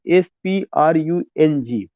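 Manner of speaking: slow, letter-by-letter spelling; measured spelling, one letter at a time. Shown as a demonstration. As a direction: spell it out slowly for students. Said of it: "मैं फिर से spelling बोल दे रहा हूँ".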